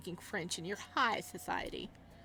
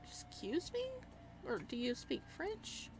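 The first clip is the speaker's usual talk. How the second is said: mock posh French; 5 semitones higher, 7 dB quieter than usual. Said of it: "I know the last part is like".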